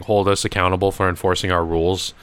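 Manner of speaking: ordinary talk, nothing marked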